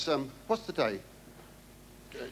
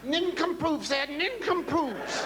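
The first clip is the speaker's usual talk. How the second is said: mock scorn; 12 semitones higher, slower than usual. Comic drawn out insult.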